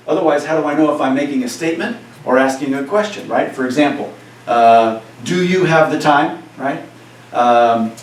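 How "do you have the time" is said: lifted questioning delivery of "do you have the time"; questioning tune. Shown as a demonstration. Spanish teacher models a question for students, questioning tune. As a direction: ask it as a real question. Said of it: "what do you hear my voice doing".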